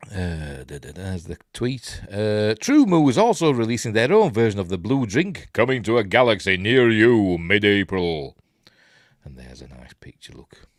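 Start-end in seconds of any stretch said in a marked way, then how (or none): 2.6-8.3 lively announcer-style read; promotional post read. Acted. Reads a promotional post aloud.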